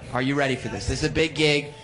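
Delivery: ordinary talk, nothing marked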